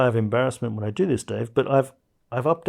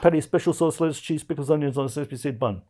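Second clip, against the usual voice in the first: correct recital; 4 semitones higher, 5 dB louder, faster than usual. Shown as a demonstration. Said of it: "you flubbed it".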